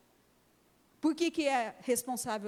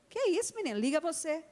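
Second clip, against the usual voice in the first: a mother's startled scold, much higher; surprised scolding mother; 5 semitones higher, 3 dB louder, faster than usual. Retold or imitated. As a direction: pitch jumps up high in shocked reproach. Mother scolds little daughter. (mãe surpresa e firme, voz bem mais aguda)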